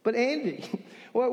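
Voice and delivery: usual speaking voice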